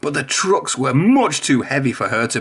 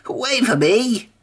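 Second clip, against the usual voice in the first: higher, slow, cheerful call; cheerful whistling Whiff; 10 semitones higher, slower than usual. A narrator's reading. Whiff chases Emily, cheerful and slow. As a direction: call after her brightly and slowly. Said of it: "whistled Whiff cheerfully".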